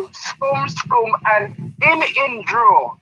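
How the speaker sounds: slow, drawn-out mock coaching cues; imitating the trainer. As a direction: stretch it out slowly like the boxing coach calling footwork. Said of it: "That's what he said".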